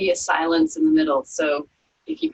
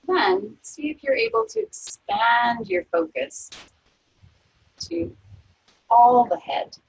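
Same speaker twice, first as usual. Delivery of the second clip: calm, unhurried body-scan voice; guided meditation; 8 semitones higher than usual. Acted. Yoga teacher guiding students through a resting body scan, calm meditation voice.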